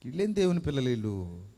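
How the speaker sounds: low-pitched, understated dismay; disgusted disbelief. Acted. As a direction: say it low, as a despairing thought. Acted disgusted inner reaction.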